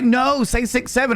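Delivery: put-on very high indignant kid voice; mimicking insistent kids. Kids demanding the right number, squeaky outrage. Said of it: "And they're like".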